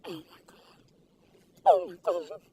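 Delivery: breathless whisper after the bite; awed whisper. Real, not acted. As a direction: let the taste silence you. First bite of the cookie.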